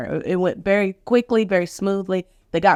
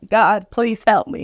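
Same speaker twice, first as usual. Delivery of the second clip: slow, higher plea to God; retold pleading; 6 semitones higher, 4 dB louder than usual. Patient on the ER floor begging God, pleading. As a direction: draw out a prayer for help, raised in pitch. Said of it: "I'm pleading on the floor".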